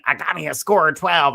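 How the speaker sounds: a hint of the documentary lady's delivery. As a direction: quote her with relish, only lightly put on. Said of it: "I love the way the lady said that".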